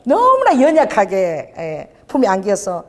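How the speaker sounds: gentle drawn-out preacher phrasing; tender and slow. Acted. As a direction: linger on the fragility. Describing the fragile infant.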